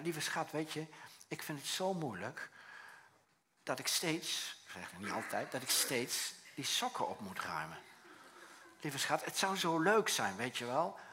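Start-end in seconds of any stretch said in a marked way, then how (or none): 0.0-4.6 tender. Shown as a demonstration. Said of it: "Dan ga je gewoon zeggen". 5.5-11.0 tender. Shown as a demonstration. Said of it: "Dan ga je gewoon zeggen".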